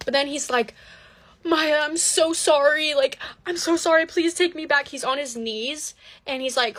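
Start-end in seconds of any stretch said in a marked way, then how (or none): 1.4-4.9 tearful pleading. Retold or imitated. Boyfriend on his knees begging Maya for forgiveness, imitated tearful pleading. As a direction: imitate a desperate, whiny apology. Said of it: "crying to me".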